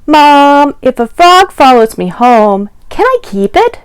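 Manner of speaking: put-on excited little boy. Boy asking his mom to keep a frog, eager and high. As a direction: plead like an eager kid asking permission.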